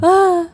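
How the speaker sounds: a short caught sob, high and loud; sudden audible sob catching in the throat; audible sob demo. Shown as a demonstration. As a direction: let out one choked sob sound. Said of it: "when people sob and it's more of, like, audible".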